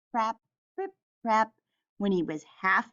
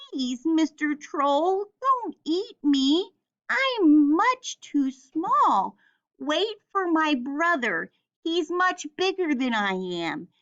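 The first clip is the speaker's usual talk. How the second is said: frightened little goat; 6 semitones higher than usual. Acted. Little goat begs the troll in a high pleading voice. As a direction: beg the troll not to eat him. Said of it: "was afraid".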